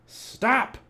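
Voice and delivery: high-pitched cry to halt; captain calling out. A narrator's reading. Pirate captain chasing his men, calling out high. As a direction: call sharply after runaways. Captain yells after fleeing crew.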